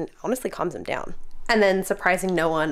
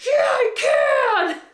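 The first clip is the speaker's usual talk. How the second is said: much higher, slow, loud cry; pumped-up shout; 5 dB louder, much slower than usual. Retold or imitated. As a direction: roar it back like a workout hype. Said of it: "I'm like".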